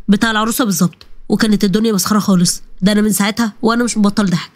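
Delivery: a buddy sharing juicy wedding gossip; lightly voiced amused friend.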